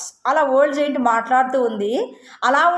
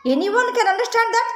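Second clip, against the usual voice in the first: much higher, slow giant voice; selfish giant; 9 semitones higher, much slower than usual. Acted. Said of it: "ఏమంటుంది తెలుసా?". (స్వార్థపరుడైన రాక్షసుడు, ఎత్తైన నెమ్మది గొంతు)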